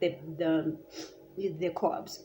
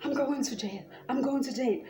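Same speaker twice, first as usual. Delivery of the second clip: retold panic; 4 dB louder than usual. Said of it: "That's when I started panicking".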